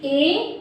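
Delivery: "ए" as a long pure e; clearly shown "ए", drawn out like a teacher's model; vowel demonstration. Shown as a demonstration. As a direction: hold "ए" as one steady close vowel. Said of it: "ये हमारी इस तरह से हो जाएगी".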